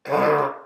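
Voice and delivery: mock frog growl; growled ribbit. Shown as a demonstration. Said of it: "which is how I say ribbit".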